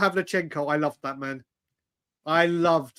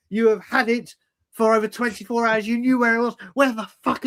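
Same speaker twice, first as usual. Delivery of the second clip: mock angry rant; 4 semitones higher than usual. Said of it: "I went mad".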